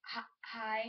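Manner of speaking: mildly acted shy stammer; halting little greeting, a touch nervous; tongue-tied. Girl who can't even talk to you, tongue-tied. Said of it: "They can't even talk".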